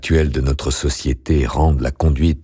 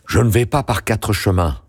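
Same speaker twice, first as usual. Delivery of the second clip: understated cry in a higher voice; 6 semitones higher than usual. A narrator's reading. Woman bursting in on the marquis, mildly crying out. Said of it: "cria-t-elle".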